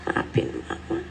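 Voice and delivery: breathy whispered plea; whispered apology. Pretend. Mother's last sorry to her child, whispered. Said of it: "duduk sama anak secara serius".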